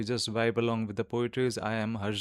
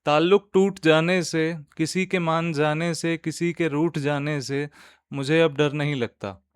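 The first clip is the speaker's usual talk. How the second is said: nazm recitation; 2 semitones higher, 4 dB louder than usual. Acted. Host reciting a nazm to podcast listeners, measured poetic recitation. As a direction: recite line by line, lifting the verses and letting the refrain fall. Reads the stanzas again.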